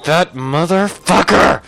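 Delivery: slow, emphatic growing curse; mad. Real, not acted. Storyteller on learning of the threesome, slow half-comic angry curse. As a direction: spread it out and punch the end, half laughing. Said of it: "I was so mad".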